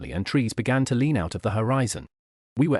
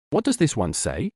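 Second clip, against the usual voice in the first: Graham's voice; 3 semitones higher than usual. Acted.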